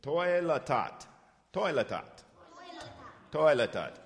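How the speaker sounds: Toi la tat said slowly, syllable by syllable; slow teaching demo. Shown as a demonstration. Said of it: "what's this say?".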